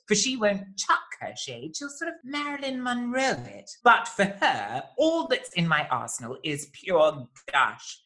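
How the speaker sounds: grand theatrical verse reading; poem recital. Acted. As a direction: declaim it like a camp showman. Reciting bespoke poem introduction.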